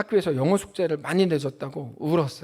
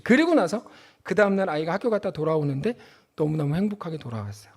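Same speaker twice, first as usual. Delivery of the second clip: ordinary talk, nothing marked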